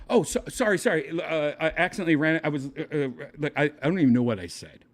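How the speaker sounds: mock flustered, tripping over words; flustered apology. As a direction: stumble over a panicked retold apology.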